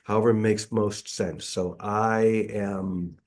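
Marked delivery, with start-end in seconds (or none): 1.8-3.2 long drawn vowels on one out-breath; breathed-out mantra. Shown as a demonstration. Teacher demonstrating for the group, words drawn out on the out-breath. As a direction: stretch both words slowly over the exhale. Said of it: "we'll breathe out saying".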